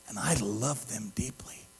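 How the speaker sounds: low, whispered declaration of love; hushed voice of God speaking; hushed tenderness. Retold or imitated. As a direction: drop to a soft near-whisper. Voices God's tender answer.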